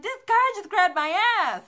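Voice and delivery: loud, high-pitched indignant outburst; retold freaking out. Woman telling her cousin about the groper, acted freaked-out outburst. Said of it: "I'm freaking out".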